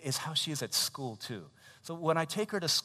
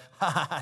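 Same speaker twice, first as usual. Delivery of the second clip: short mock giggle; quick put-on laugh; imitated child laugh; 4 semitones higher, 6 dB louder than usual. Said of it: "She thinks it's a game. So she laughs".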